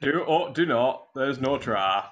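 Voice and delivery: lightly put-on Yorkshire Yoda line; a hint of Yorkshire on the wise saying; mild Yorkshire Yoda; Yorkshire accent. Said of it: "I'll do it in a Yorkshire accent".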